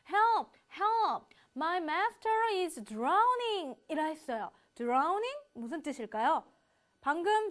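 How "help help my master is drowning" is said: high, urgent cries for help; fluttering cries for help. Shown as a demonstration. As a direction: cry out for help in panic. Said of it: "굉장히 도와달라고 다급하게 외치는 모습".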